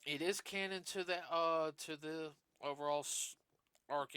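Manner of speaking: burping while talking. Real, not acted. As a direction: talk through a burp. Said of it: "Sorry, I'm burping".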